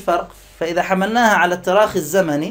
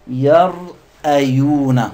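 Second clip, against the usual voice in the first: drawn-out word; 3 semitones lower, 5 dB louder, much slower than usual. Shown as a demonstration. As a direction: stretch يرأيون very slowly, syllable by syllable. Teacher sounds out the word. (تمطيط الكلمة ببطء)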